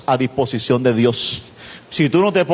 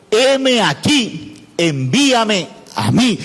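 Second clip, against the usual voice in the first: slow, deliberate declaration; measured answer to God's call; Isaías answering; 3 semitones higher, much slower than usual. Acted. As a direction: draw out each phrase as a solemn offer. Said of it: "Isaías dijo".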